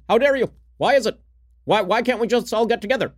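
high, pleading mock-outrage voice; a hammed-up politician scolding the room; mock Barack Obama. Host imagines Obama giving Greta's speech, hammed-up high voice. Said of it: "if you saw Barack Obama say".

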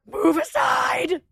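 bossy order. Retold or imitated. Ordering boarders out of way.

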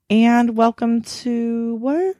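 slow teasing whisper. Acted. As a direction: whisper a prompt. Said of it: "I'm not whispering".

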